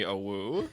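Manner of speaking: tiny wolf howl. Retold or imitated. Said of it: "like, a tiny".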